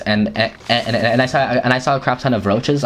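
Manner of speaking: repeating the first words before getting going; stumbling stutter on "and". Real, not acted. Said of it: "I'm kinda stuttering".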